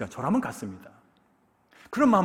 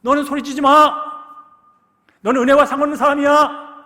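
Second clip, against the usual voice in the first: crush him with contempt; angry rebuke; 12 semitones higher, 12 dB louder than usual. Retold or imitated. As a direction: crowd yelling down the beggar. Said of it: "꾸짖었답니다".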